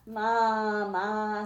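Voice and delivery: lightly voiced storybook goat bleat. A narrator's reading. Story reader voices the goat for children, bleating lightly. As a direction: draw it out like a goat. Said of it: "said the goat".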